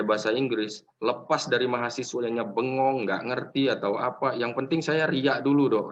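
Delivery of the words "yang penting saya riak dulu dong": mock show-off. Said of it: "katanya kan".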